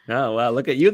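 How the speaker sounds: normal talking voice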